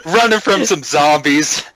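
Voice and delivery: laughing disbelief. Retold or imitated. Retelling own confused reaction.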